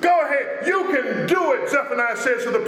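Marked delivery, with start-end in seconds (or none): 0.0-0.7 uplifting go-ahead, full of praise; an offer of encouragement; encouraging. Retold or imitated. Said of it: "an offer of encouragement and praise". 0.7-1.7 rousing praise; preacher voicing encouragement; encouraging. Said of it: "an offer of encouragement and praise".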